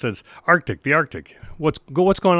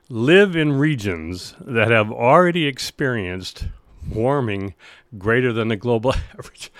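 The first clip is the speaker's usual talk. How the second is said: reading through suppressed laughter; holding back a laugh mid-sentence; stifled giggles. Real, not acted. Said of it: "trying not to laugh right now".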